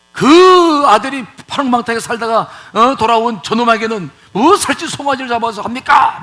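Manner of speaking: loud, indignant complaint; acted angry grievance, voice pushed up; angry older brother. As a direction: protest loudly as the resentful brother. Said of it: "막 화를 내면서".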